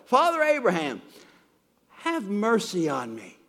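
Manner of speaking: a rich man in hell crying out for mercy; pleading call. Acted. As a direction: beg from torment, calling up to Abraham.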